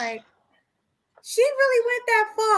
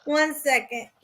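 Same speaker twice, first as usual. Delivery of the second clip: slightly tipsy apology; tipsy, softly flustered; 2 semitones lower, 5 dB quieter than usual. Real, not acted. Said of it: "I'm a little tipsy".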